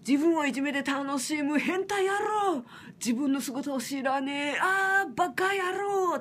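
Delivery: slow, emphatic reciting of rough lyrics; quoting lyrics forcefully. Retold or imitated. Reciting her song's lyrics to viewers, slow and forceful. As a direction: hammer out each insult of the song. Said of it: "って歌ってるけど".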